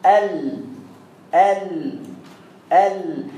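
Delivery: Arabic teacher demonstrating the letter lam; sustained lam sound. Shown as a demonstration. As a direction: hold a clear, isolated "ال" three times. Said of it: "أهو".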